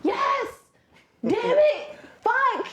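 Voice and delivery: very high, loud outburst; mock kid yelling. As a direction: blurt it out like an excited kid. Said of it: "he's just like".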